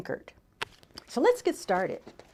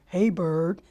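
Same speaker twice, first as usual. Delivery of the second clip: voiced Raccoon; 5 semitones lower than usual. A narrator's reading. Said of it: "said Raccoon".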